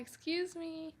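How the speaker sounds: high, soft put-on politeness; mock polite apology. Mimicking a shopper squeezing past, high and polite. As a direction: squeak out a fake sorry.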